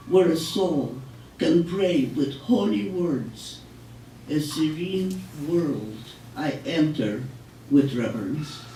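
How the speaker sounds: poetry reading. Acted. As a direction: let each image land, reverent and unhurried. Recites own poem.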